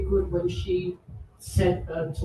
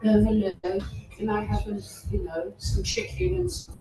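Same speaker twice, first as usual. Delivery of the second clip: a hint of a Jamaican mother putting on her best English; mother's shop voice. Retelling how her mother spoke in English shops, lightly put-on proper voice. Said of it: "whenever she went into a shop".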